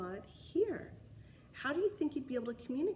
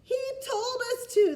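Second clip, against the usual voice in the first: higher, loud group blame; knights shouting; 13 semitones higher, 9 dB louder than usual. Acted. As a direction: shout it all together. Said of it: "they shouted".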